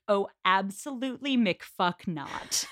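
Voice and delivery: slow, drawn-out refusal through a laugh; laughing mock refusal. Co-host voicing Emma turning Mister Elton down, laughing. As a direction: laugh as you flatly refuse him.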